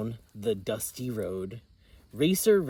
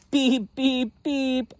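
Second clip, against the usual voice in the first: high, playful truck beeps; laughing beep; 11 semitones higher, 4 dB louder than usual. Acted. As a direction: honk it with a chuckle. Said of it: "laughed Little Blue".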